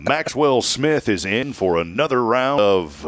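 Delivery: lightly voiced small-town announcer, slow; a hint of an old country radio man reading the list, slowly. Grandma's radio station's hospital report, slow announcer drawl. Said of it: "like a Cooter Roberson type voice".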